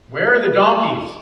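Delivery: Where ringing out loud; loud exclamation. Retold or imitated. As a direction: call it out like a man hunting his lost animals. Preacher voicing Saul's worry.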